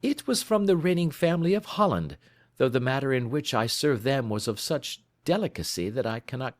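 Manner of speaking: a measured, confident sleuth, lightly played; lightly voiced detective. Holmes explains a royal case.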